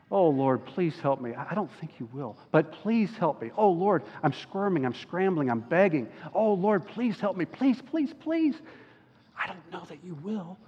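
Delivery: quiet, begging, voice breaking upward on please; desperate pleading prayer. Retold or imitated. Preacher reenacting his late-night desperate prayer, quiet pleading. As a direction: plead with God, half-whispered and desperate. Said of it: "this is how my prayers were going".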